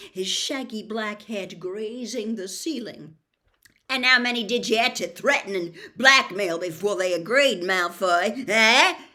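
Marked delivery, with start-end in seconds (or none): 3.9-9.1 loud, fast furious roar. Acted. Hagrid roars at Malfoy about the blackmail. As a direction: bellow the accusation. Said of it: "he roared".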